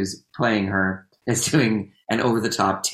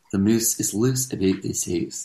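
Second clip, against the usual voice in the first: practice phrase in a Scottish accent; Scottish vowels, said evenly as a warm-up; 3 semitones lower than usual. Shown as a demonstration. Performer showing her way into the accent, careful Scottish. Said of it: "how you get into the Scottish accent".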